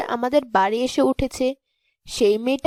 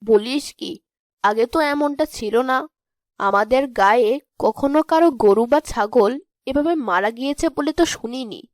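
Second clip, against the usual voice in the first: astonished mother; 3 semitones lower than usual. Acted. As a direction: react in disbelief, pitched well up. Mother hears cattle are dying. (অবাক মায়ের চড়া গলা)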